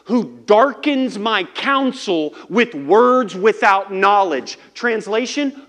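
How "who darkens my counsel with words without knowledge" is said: slow, booming rebuke; God rebuking Job, slow and loud. Acted. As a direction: thunder it down slowly. God breaks the silence with.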